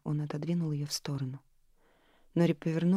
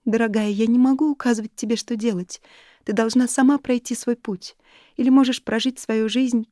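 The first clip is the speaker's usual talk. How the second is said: higher, louder friendly voice; a lightly voiced loving friend, higher; gentle older friend; 6 semitones higher, 8 dB louder than usual. A narrator's reading. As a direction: lift the voice for the caring friend. Narrator voices friend Alice.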